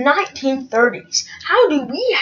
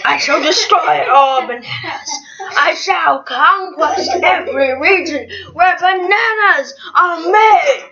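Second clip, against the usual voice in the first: evil emperor voice. Pretend. Emperor Bob's decree again.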